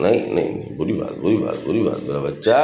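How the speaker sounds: low, soothing tut-tutting; gentle chiding. Real, not acted. Soothing an angry little one he calls his child, gentle chiding.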